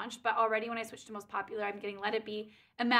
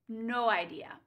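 ordinary talk

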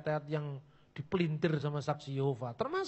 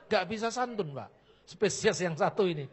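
joking reply. Retold or imitated. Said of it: "Cuma saya guyoni saja".

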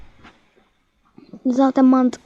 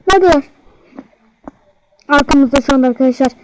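alarmed; 4 dB louder, faster than usual. Real, not acted. Enemies approaching, panicked.

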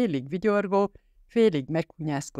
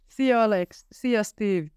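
excited goodbye; 6 semitones higher, slower than usual. A narrator's reading. Boy running out calling goodbye.

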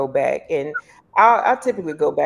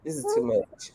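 high, soft weary moan; imitating herself, high and soft; overwhelmed quote; 12 semitones higher, 7 dB quieter than usual. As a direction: sigh it out, worn down. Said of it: "'Cause I just be like".

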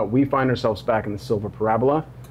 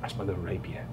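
pixie; 4 semitones lower, 12 dB quieter, faster than usual. Acted. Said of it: "He says".

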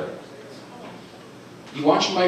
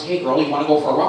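sweet dog-talk; 2 semitones higher, faster than usual. Retold or imitated. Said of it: "You say those magic words".

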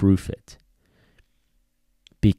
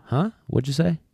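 higher, puzzled dog that didn't catch it; confused dog voice; 9 semitones higher than usual. Retold or imitated. Trainer voicing a dog that ignores the sit cue, puzzled. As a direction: play the dog who wasn't listening.

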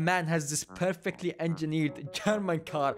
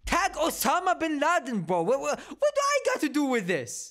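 exasperated high voice; 10 semitones higher than usual. Real, not acted. Exasperated outburst at fans.

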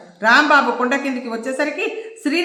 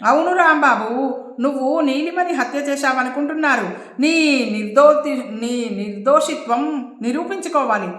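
a mild raised call, urgent; calling out loud. Acted. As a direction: call out to him across the hill. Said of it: "Saroja కూడా గట్టిగా అరిచింది". (సరోజ రాంబాబుకి దూరం నుంచి అరుస్తూ చెబుతోంది)

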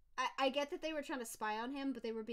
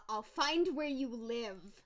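menacing voice; 5 dB louder, much slower than usual. Acted. Reading a threatening message.

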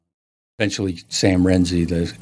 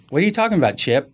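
high-pitched, puzzled comeback; mock-innocent bewilderment; baffled question; 7 semitones higher, faster than usual. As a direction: ask it high, as if taken aback. Acted baffled reply to the official.

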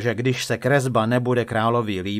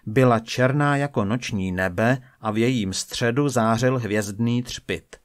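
ordinary delivery, nothing marked

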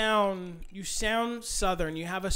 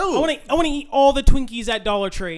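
put-on high, loud, gleeful kid-like wish; gleeful glutton; 8 semitones higher, 9 dB louder, faster than usual. Joking about picking childhood obesity, gleeful glutton. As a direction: act out a greedy little eater. Acting out choosing a chubby childhood.

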